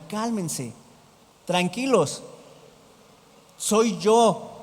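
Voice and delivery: composed, gently falling phrases; unhurried, settled calming voice; calm reassurance. Acted. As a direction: reassure them without any alarm. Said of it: "No, sino".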